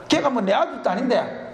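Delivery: usual speaking voice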